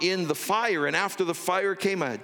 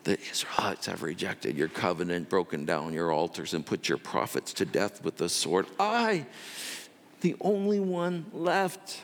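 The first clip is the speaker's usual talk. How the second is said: mild mournful recital of the complaint; 4 semitones lower than usual. Acted. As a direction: recite it like a worn-out rehearsed grievance. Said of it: "He's been practicing this for forty days".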